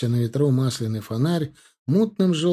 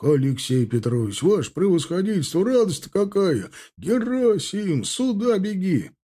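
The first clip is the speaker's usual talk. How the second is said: joyful calling; 7 semitones higher than usual. Acted. Veterans greet returned commander.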